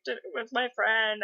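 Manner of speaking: put-on a touch of a child's whimper; sniffling child. Girl hiding up there mourning her pig, mock sniffling.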